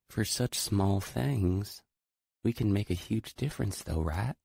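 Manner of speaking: put-on earnest young girl, hoping to be believed. A narrator's reading. Girl hopeful, serious.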